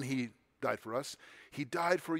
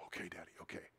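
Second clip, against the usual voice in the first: put-on tiny, much lower and softer, a scared toddler; small child; 11 semitones lower, 18 dB quieter, faster than usual. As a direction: whimper it like a little boy who just got scolded. Toddler answers dad tearfully.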